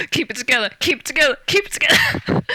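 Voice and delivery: rising from murmur to high strained plea; mounting panicked self-talk; self-calming. Retold or imitated. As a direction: tell yourself not to lose it. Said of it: "had to stop myself freaking out".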